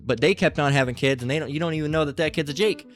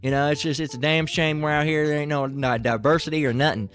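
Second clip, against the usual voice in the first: redneck voice; 2 semitones higher than usual. Retold or imitated. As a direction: play a clumsy, friendly country redneck. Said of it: "they're rednecks".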